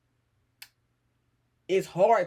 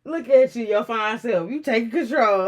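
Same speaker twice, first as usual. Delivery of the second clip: fake flattering; 4 semitones higher, 4 dB louder than usual. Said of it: "trying to manipulate me".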